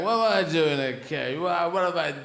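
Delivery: lightly voiced dim greyhound complaining; caged greyhound. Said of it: "And they go".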